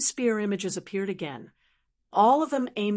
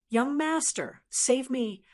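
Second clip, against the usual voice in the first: higher, a hint of panic in a plea for help; terrified cry; 4 semitones higher than usual. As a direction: cry out to the young master, mildly frightened. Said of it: "let out a terrified cry".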